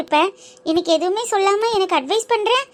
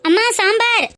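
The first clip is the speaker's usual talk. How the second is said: raised, higher-pitched call; 4 semitones higher than usual. Acted. Daughter calls her mother for sambar, calling out. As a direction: call to someone out of view.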